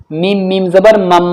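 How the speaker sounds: letter names, then "मम" with held m; spelling-out. Shown as a demonstration. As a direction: spell it out and hum the end of "मम". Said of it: "अब हम इनकी हिज्जे करते हैं". (हिज्जे करके "मम" पर गुन्ना)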